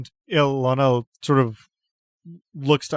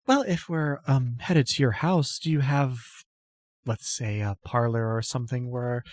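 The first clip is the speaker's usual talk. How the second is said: put-on a timid goddess-follower greeting an old friend; timid noble lady; 2 semitones higher than usual. GM voices Apatia.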